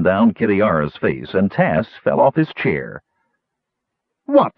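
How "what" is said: short, mild shout; startled, demanding exclamation. A narrator's reading. Puzzled man to his laughing friends, shouted. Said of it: "shouted Caramon".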